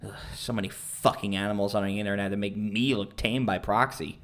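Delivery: low, soft, disgruntled grumble; grumbling. Acted. Ethan complains about people on the internet, grumbling. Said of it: "He grumbled".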